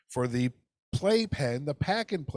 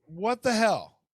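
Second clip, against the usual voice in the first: higher, a bit louder, mock outrage; exasperated cry; 7 semitones higher, 3 dB louder, slower than usual. Real, not acted. Correcting to the podcast's name, exasperated and high. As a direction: throw it up high in disbelief. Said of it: "that's not what the podcast is called".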